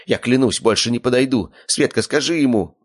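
villain begging; pleading. A narrator's reading. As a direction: beg for your life. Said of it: "взмолился он".

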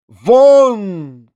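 loud, high "Out!"; commanding shout. A narrator's reading. Генеральша ordering the narrator out, loud imperious shout. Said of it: "крикнула она".

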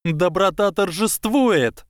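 high, slow triumphant exclaim. A narrator's reading. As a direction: proclaim it in triumph. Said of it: "воскликнула генерал Грейнджер".

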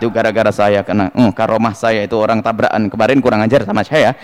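low-pitched self-important claim; mock bragging. Preacher imitates minor kiai claiming credit for crashes, mock bragging. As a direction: play a boastful minor cleric, voice dropped low. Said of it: "kiai kecil misalnya ngaku-ngaku".

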